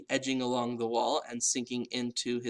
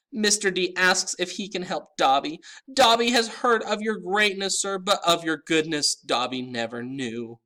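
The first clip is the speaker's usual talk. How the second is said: high-pitched elf; 6 semitones higher, 5 dB louder than usual. A narrator's reading. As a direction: squeak it out like a house elf. Dobby speaks.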